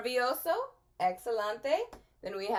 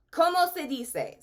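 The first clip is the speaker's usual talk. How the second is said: ¿Cómo stressed, slightly raised; clear model phrase; 6 semitones higher, 5 dB louder than usual. Shown as a demonstration. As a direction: say ¿Cómo se dice? clearly for the class to echo. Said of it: "Say that with me".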